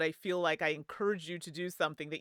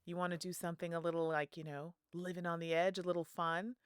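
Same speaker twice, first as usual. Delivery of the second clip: conspiratorial hush, softer; half whisper; 6 dB quieter than usual. Acted. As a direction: tempt a friend quietly into mischief. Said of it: "is kinda just whispers".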